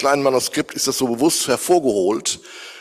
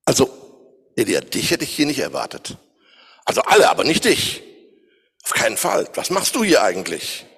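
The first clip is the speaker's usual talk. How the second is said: surprised God. Acted. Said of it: "man könnte es auch so ausdrücken".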